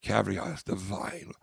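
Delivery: lightly imitated gushing British woman; British accent. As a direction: stretch the opening in a mock British accent. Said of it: "she's got a British accent".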